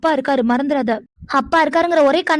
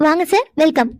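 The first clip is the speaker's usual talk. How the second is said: a laugh, then a smiling welcome; forced smile. Acted. Told to smile at the guests, a laughing welcome. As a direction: laugh it off and greet them sweetly. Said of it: "சிரிச்சுட்டே பண்ண வேண்டாம்".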